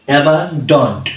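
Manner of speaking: অ্যাবান্ডন্ট in two distinct syllables; two-syllable pronunciation. Shown as a demonstration. Teacher showing pupils how to pronounce অ্যাবান্ডন্ট, syllable by syllable. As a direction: say অ্যাবান্ডন্ট as অ্যাবান plus ডন্ট. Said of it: "দুই সিলেবলে আমরা এই শব্দটা উচ্চারণ করব".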